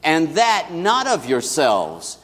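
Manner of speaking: slow, measured reading of scripture together; congregational recitation. Acted. Pastor reciting the verse with the congregation, slowly. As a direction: lead the room through the verse, slowly. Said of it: "let's say this together".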